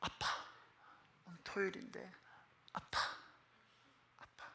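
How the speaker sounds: very soft, hushed pleading to dad; tiny hushed voice, with pauses; imitated child's whisper. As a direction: whisper like a little son asking gently. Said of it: "저에게 와서 속삭였어요".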